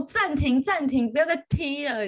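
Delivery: half-voiced urgent call of "暂停"; a restrained urge to yell stop; mock shout. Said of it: "我就很想要喊说".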